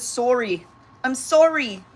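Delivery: put-on Canadian accent. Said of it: "I love how she says".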